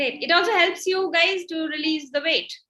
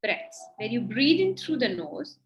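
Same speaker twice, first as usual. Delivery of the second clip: guided breathing meditation. Acted. Guides breathing and closed eyes.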